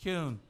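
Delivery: "Kuhn" with a y-glide, KYOON; settled pronunciation. Shown as a demonstration. Host settles on a version, "Kuhn" pronounced KYOON. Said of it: "Which is it, Kuhn or Kuhn?".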